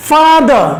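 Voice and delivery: "father" drawn out in two beats; split into syllables. Shown as a demonstration. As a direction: say "father" as fa, then ther. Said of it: "ভেঙে ভেঙে উচ্চারণ করতে পারি".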